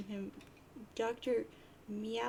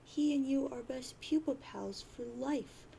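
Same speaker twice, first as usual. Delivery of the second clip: put-on pleading troll girl; 4 semitones higher than usual. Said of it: "And she says".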